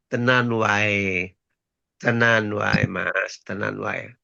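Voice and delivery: low, slow Javanese muttering; lightly voiced Javanese driver, slow and low. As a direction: drawl it low like the minibus driver.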